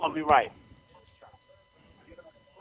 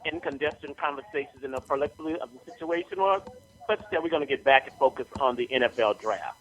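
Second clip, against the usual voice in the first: radio announcer voice. Acted. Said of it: "Bring my radio voice".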